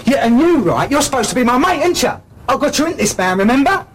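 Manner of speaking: angry accusation. Acted. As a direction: lay the betrayal on him. Turning on supposed mate angrily.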